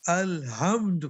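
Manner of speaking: الحمد with a light ہ sound, like Lahore ہ; wrong ہ in الحمد instead of throaty ح; wrong pronunciation. Shown as a demonstration. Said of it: "اس کی جگہ کیا پڑھ دیا". (الحمد میں ح کی جگہ ہلکی ہ)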